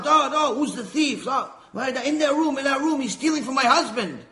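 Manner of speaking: frantic, urging the cops to the room; wife panicking as police burst in; panicked wife. Acted.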